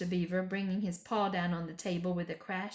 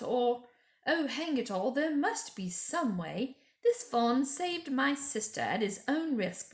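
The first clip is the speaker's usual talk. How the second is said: put-on eager boy Peter; 5 semitones higher than usual. Peter voiced, eager plea.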